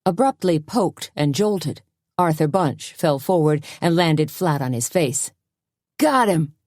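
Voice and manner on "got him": triumphant scream. A narrator's reading. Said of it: "screamed Junior".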